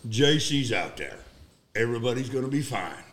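measured, confident reassurance with long pauses; calm reassurance. Retold or imitated. Reassures panicking men in retold scene.

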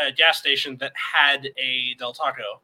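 usual speaking voice

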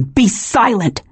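snapped. Acted. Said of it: "he snapped".

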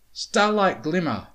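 stern. A narrator's reading. Twilight sternly rebuking student.

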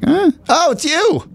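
high, unimpressed "oh, it's you"; a guard who barely looks up, high and flat; bored security guard. Retold or imitated. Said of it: "It's kinda like".

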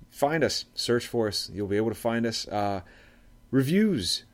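lightly imitated podcast sign-off patter; John Gove. Host standing in for the absent co-host, light impression. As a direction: give the plugs with a hint of impression, stretching key words. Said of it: "I'll do my best John Gove impression".

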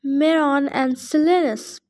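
panicky satyr. Acted. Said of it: "I could hear the panic in his voice".

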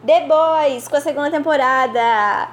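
excited winner reveal. Acted. Announcing award winner.

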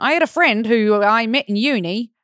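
weak attempt at Australian accent; bad Australian accent. Shown as a demonstration. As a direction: try a clumsy Australian accent. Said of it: "Okay, that was terrible".

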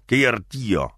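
"Qué divertido" como "que iertíiio"; pronunciación porteña parda. Shown as a demonstration. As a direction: tragate las consonantes de "Qué divertido". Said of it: "No, es divertido". ("Qué divertido" comido y arrastrado)

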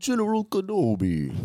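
high, raspy droid villain; Grievous voice. Retold or imitated. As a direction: hiss it like Grievous. Grievous quote.

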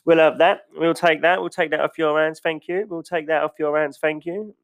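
chirpy mock thank-you as you take it all; smug profiteer. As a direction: play the smug buyer snapping up businesses. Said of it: "there'll be someone going".

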